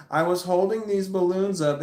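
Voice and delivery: pointedly loud announcement. Retold or imitated. Telling roommate so everybody around hears, mildly loud. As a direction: announce it for bystanders to overhear. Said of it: "I said this loud enough for everybody around".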